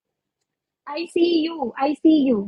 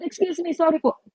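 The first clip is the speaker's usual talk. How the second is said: coughing after choking; cough, then excuse yourself; faster than usual. Real, not acted. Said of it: "Nabulunan ako". (nabulunan, umuubo)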